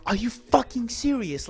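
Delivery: high-pitched incredulous question; acted disbelief. Student hearing the teacher is crying, high incredulous reaction. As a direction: let the pitch jump in mock astonishment.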